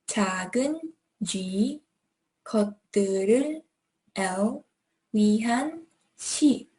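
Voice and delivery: 「작은」 then G, 「것들을」 then L, fast; linking demo. Shown as a demonstration. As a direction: show the linking sounds between words. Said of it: "connect these two words".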